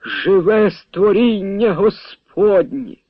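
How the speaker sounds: high, slow rapt proclamation; exclaiming. A narrator's reading. Priest proclaims over the grass, high slow exclamation. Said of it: "вигукнув".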